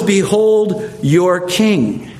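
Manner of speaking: slow, drawn-out mild taunt. Acted. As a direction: present him slowly, as a taunt. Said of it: "he's taunting these Jews".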